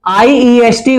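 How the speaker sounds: letters spelled out very slowly; dictating each letter at a crawl; slow spelling out. Shown as a demonstration. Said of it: "वाई का बनाया मैंने आई".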